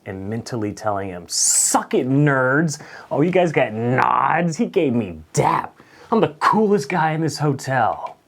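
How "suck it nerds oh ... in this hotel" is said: gloating. Retold or imitated. Gloating to coworkers.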